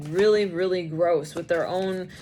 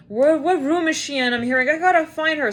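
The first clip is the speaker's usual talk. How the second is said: frantic search; 6 semitones higher, 5 dB louder than usual. Retold or imitated. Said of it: "They're like".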